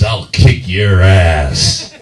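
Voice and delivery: slow, drawn-out tough-guy threat; mock macho, low-key menace; manly threat. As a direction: say it slowly like a manly drinker. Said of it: "beer is manly".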